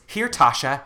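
loud mock salesman's yell; gleeful screaming. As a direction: hawk the cookies at the top of your voice. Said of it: "and starts screaming".

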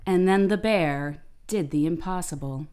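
slow, dramatic documentary narration; slow, grave TV narrator voice. Shown as a demonstration. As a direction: read it like a nature show narrator. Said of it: "I'll try to do the voice".

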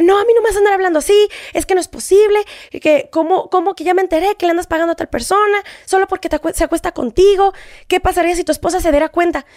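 retold angry argument; heated retort. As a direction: fire back at the boss, outraged.

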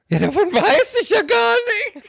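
high squeaky put-on voice for her past self; mock naive protest. Retold protest to the doctor. (hohe, gespielt ahnungslose Stimme)

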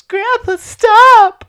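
high, loud yell of alarm; panicked shout. Retold or imitated. Narrator yelling at grandpa at the border, panicked. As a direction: scream at him to stop. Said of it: "all I heard was".

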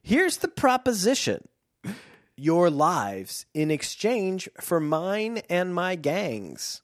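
high, slow villainous offer; grand villain offer. Acted. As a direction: lay out the deal like a grand villain. First read of smuggler's offer.

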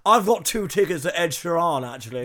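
lightly put-on posh English; mock posh accent. Posh person boasting of concert tickets, mock posh accent. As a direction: say it with a hint of posh airs. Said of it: "like, posh people say".

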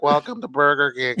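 slow, lightly acted stoned greeting; a hint of dazed fast-food worker; stoned cashier. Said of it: "they're already getting high".

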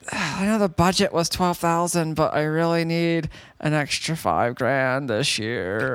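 lightly voiced demanding wife; sigh, then whine for money; wife impression. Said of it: "good impersonation of my wife".

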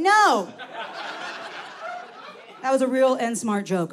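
usual speaking voice

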